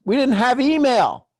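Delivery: high, slow and drawn out grandpa; old-timer voice. Pretend. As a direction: ham up the old-timer lament. Jokes about the old days.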